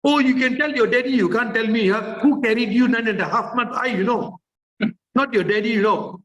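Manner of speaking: high-pitched offended mother; indignant mommy. Acted. Mother scolding child who told daddy first, indignant. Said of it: "my concern for telling mommy is this".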